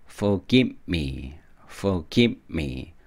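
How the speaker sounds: "Forgive me" very slowly, no vowel after give; syllable-matched. Shown as a demonstration. Teacher drilling the lyric, "Forgive me" slow in three syllables. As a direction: close "give" before a separate "me". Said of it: "음절이 안 맞아서 forgive me".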